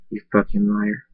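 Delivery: a muttered thought, not said aloud; inner thought. Acted. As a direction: keep the insult under your breath. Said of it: "I think".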